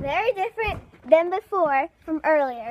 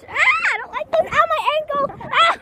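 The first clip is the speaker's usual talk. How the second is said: high frightened cries; tripping and falling; 10 semitones higher, 4 dB louder than usual. Real, not acted. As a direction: yelp in pain and fright. Falls off playground swing.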